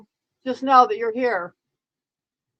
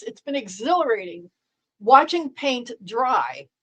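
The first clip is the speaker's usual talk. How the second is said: sarcastic. Real, not acted. Sarcastic praise of boring stream.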